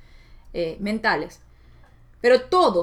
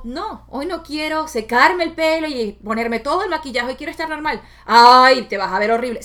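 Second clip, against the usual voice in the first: grandmother's nagging voice; 2 semitones higher, 6 dB louder than usual. Retold or imitated. Grandmother's voice scolding her about looks, mildly nagging. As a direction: scold her for skipping makeup. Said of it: "esa voz de mi abuela que decía".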